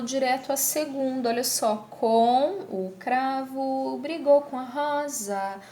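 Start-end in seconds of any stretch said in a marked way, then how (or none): 1.9-5.6 slow, "com a" without its M; ellipsis demo. Shown as a demonstration. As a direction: draw it out, "com a" as "coa". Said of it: "eu retiro a consoante". ("com a" devagar, sem o M)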